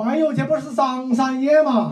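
天津话; Tianjin dialect. Retold or imitated. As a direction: greet him like a Tianjin local. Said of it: "我们这天津话".

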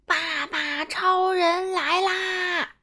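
slow, drawn-out announcing shout; hero's arrival shout. Acted. Daddy Superman arriving to fight the alien, slow shout. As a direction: announce the hero like a cartoon. Hero arrives to save boy.

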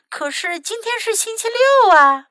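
high, loud whiny objection; crying out in protest. A narrator's reading. Fox protests to Mom about Saturday, high loud cry. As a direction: protest like a put-upon child. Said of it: "福克斯叫道".

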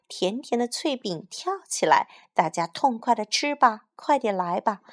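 put-on tempting flute call to children; lively, cheerful. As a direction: coax the children with sing-song cheer. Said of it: "笛声轻快活泼".

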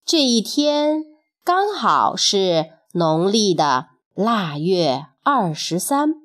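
measured, expressive storyteller delivery; storybook reading with lingering phrase endings; children's story narration. A narrator's reading. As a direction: tell it slowly to little listeners, phrase by phrase.

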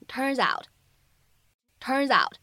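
"turns out" slowly, the s running into "out"; linked, slow. Shown as a demonstration. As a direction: link "turns out" slowly, twice. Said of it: "可以连读一下". (慢速连读"turns out")

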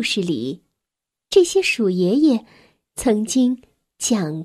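gentle, measured storytelling with long pauses; children's story narration. A narrator's reading. Narrator tells a child about a grieving mouse family, measured storytelling.

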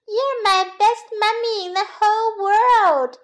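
put-on high, loud singsong child bunny; little bunny. A narrator's reading. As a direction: gush to mother in a high lilt. Little bunny praises his mother.

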